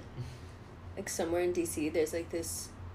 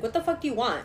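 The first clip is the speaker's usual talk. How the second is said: put-on higher-pitched snotty teen demand; lightly acted teenage attitude; bitchy teenager; 4 semitones higher than usual. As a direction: play a rude teenage self. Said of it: "a bitchy teenager".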